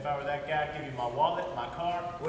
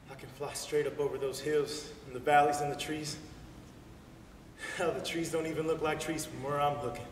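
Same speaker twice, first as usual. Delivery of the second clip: dreamy. Acted. Dreamy flight monologue.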